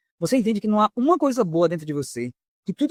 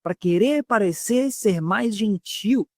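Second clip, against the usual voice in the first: slow, drawn-out put-on gentleness; mock meek voice; 4 semitones higher, much slower than usual. Shown as a demonstration. Preacher mocking fake meekness, slow and drawn out. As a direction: stretch it out like a fake-humble talker. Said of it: "mudar a forma de falar pra querer parecer".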